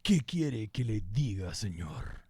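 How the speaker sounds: slow, playful Spanish performance; a slow, teasing Spanish line; mock Spanish reply. Answering a viewer's request for Spanish, playfully slow. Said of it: "for him to speak more Spanish".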